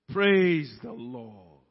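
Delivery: slow, loud preacher's call; loud praise. Real, not acted. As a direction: proclaim it, drawing out each word. Preacher repeats praise louder.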